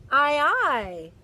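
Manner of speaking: mild mock crew shout. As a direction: call it out like a crew. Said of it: "shout the crew".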